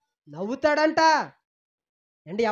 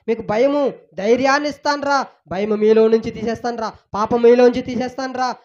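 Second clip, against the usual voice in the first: God's voice building to a louder pleading call; 3 dB louder than usual. Acted. Preacher voicing God inviting the people to come to him. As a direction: call them home, promising to take their fear away. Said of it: "అని దేవుడు ఎన్నోసార్లు దేవుడు పిలుస్తుంటే".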